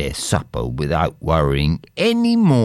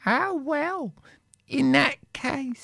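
high, complaining poor wife; wife's voice; 6 dB quieter than usual. Acted. Wife grumbling to her husband about poverty, high voice. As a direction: sigh over being poor.

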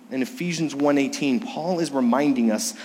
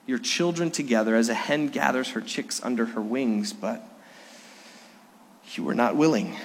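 mild lament; 2 semitones lower than usual. Retold or imitated. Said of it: "and he lamented".

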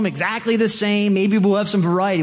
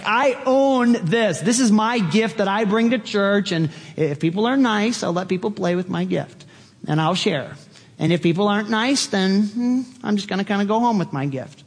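higher-pitched, self-important gift owner; mock possessiveness; 4 semitones higher than usual. Churchgoer claiming the gift as their own, mock possessive. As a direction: act like a child guarding a toy.

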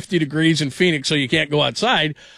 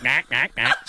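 Back, back said as quacking mack, mack; duck-like Berman call; 2 semitones lower, slower than usual. Retold or imitated. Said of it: "So he sounded like a duck".

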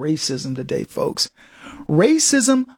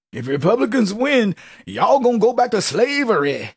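hammed-up Black dialect imitation, higher; mock a politician talking down in dialect; mock blackese; 3 semitones higher than usual. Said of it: "They gotta speak in blackese".

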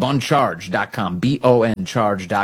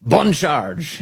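Bon Charge with a hint of French, higher pitch; slight French accent; 5 semitones higher than usual. Shown as a demonstration. Host shows off pronouncing the sponsor's name, slight French accent. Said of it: "a slight French accent".

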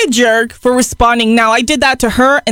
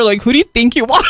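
mock angry retort; 2 semitones lower than usual.

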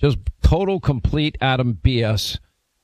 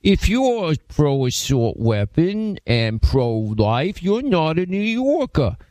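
mocking Cuomo; 3 semitones higher, slower than usual. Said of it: "Just like Andrew Cuomo".

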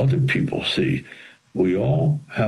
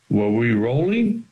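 mock sound man; 4 semitones higher than usual. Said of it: "the sound man goes".

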